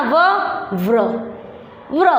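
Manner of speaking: व then व्र, rolling the r into व्र; sounding the r glide. Shown as a demonstration. Teacher to pupils, व्र with the r sound added. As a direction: add a tapped r after व to say व्र. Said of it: "र की ध्वनि निकालनी".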